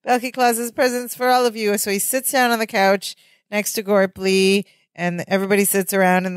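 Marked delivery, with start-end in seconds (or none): 0.0-1.8 high, festive Santa announcement; Balky Claus. Retold or imitated. Costumed Santa to the party guests, high and festive. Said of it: "And he says".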